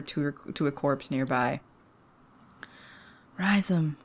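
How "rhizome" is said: a hushed, breathy cry of a name; a mother finding her dead lover, hushed; whispered grief. Acted. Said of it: "did not mute her horrid cries".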